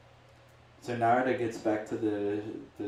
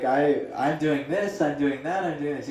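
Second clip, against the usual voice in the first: frustrated; 4 semitones higher, 6 dB louder than usual. Retold or imitated. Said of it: "He's frustrated".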